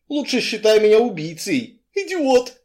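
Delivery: loud insults with pitch leaping; angry yelling. A narrator's reading. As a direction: yell it in exasperation. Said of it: "заорал он".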